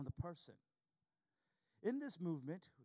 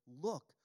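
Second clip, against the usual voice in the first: the brother's complaint opens with a loud, rising look; stress on look; 4 semitones lower, 7 dB louder than usual. Shown as a demonstration. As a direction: look said loud with a lift at the end. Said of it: "underline that word".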